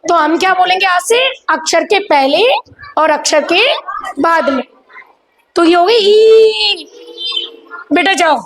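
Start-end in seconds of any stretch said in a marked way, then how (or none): 5.6-6.9 tag only. Shown as a demonstration. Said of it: "drawn-out vowel".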